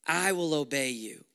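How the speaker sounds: hushed, unvoiced "I will obey you"; a whispered promise to the Father; whispered vow. Shown as a demonstration. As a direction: breathe the vow out. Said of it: "it's translated as".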